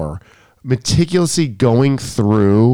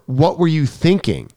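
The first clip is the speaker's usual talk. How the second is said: higher-pitched, mildly exasperated question; retold reproach; 5 semitones higher than usual. Coach recalling confronting a student, mildly reproachful. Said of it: "I didn't say it like that".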